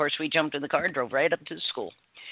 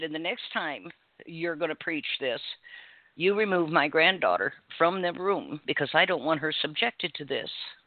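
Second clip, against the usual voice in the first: normal talking voice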